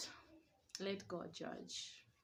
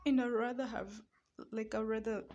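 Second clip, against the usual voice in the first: loud; 4 semitones higher, 11 dB louder than usual. Real, not acted. Defending her home, voice rising.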